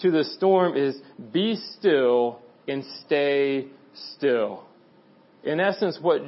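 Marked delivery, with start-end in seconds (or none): 1.3-4.6 slow, measured retold order; calm command. Jesus speaking to the waves and storm, calm slow command. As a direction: space out the words, fully in control. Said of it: "what he's saying in that moment to those waves".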